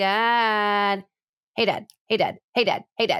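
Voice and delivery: very slow, stretched, drawn-out calf-like calling. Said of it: "it sounded like Norman".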